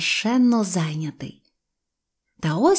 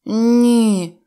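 forced carefree; 2 semitones higher, 6 dB louder than usual. Acted. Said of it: "силкуючись говорити безжурним голосом".

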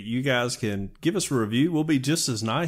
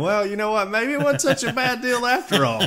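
British voice; 11 semitones higher, 3 dB louder than usual. Retold or imitated. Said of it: "they gotta be sitting back going".

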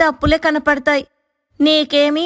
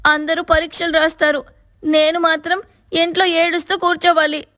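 high, bitter ranting voice; angry outburst; 13 semitones higher than usual. A narrator's reading. Sister-in-law ranting at her brother's wife, high and bitter. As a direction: vent all the anger. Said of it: "కోపమంతా చూపించి".

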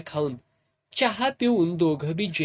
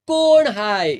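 loud, higher startled yell; scared shout; 5 semitones higher, 8 dB louder, slower than usual. A narrator's reading. Frightened Tuka shouts at the dark figure. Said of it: "तुका स्वतःला सावरीत ओरडला".

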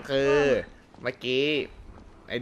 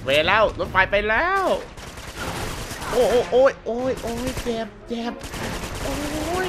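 dismayed; 9 semitones higher than usual. Acted. Character shot, train gone.

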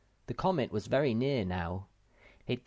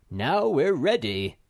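firm announcement; 4 semitones higher, 7 dB louder, slower than usual. A narrator's reading. Moomin Papa firm.

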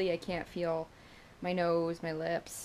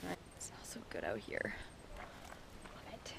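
whispering; 10 semitones lower, 18 dB quieter than usual. Real, not acted. Quiet aside outdoors.

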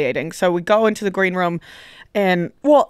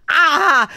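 higher, drawn-out tongue-tied "ah"; wordless flustered noise; imitated awkward groan; 5 semitones higher, 4 dB louder than usual. Storyteller mimicking self after pocketing hand, awkward drawn-out noise. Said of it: "putting my hand in my pocket and going".

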